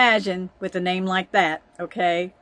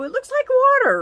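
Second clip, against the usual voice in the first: excited aside; 7 dB louder than usual. Real, not acted. Recalling a big swallow.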